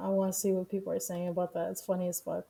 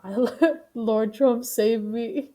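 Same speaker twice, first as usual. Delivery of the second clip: laughing; 2 semitones higher, 6 dB louder, slower than usual. Real, not acted. Laughing at the Trump prayer.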